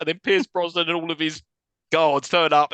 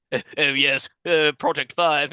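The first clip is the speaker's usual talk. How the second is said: mock British accent. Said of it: "What is this accent he's got?".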